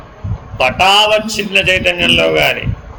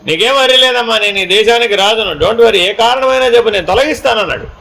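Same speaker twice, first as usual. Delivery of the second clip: a king boasting he can fix anything; boastful king; 5 semitones higher than usual. Retold or imitated. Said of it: "అన్నాడు".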